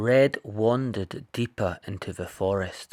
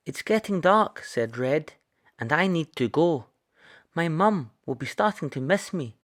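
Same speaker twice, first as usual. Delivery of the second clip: put-on higher little girl, hurrying; a hint of a girl eager to get home; lightly voiced Red; 5 semitones higher than usual. Red says she must go.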